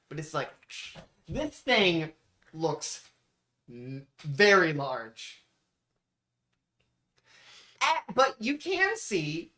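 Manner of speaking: slow, suspenseful description with long pauses; game master narration. Acted. Game master describes a huge spider to players, suspenseful narration. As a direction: pause before each grim reveal.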